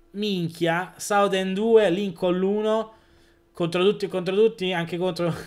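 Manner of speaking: high excited final score call. Real, not acted. Final whistle win.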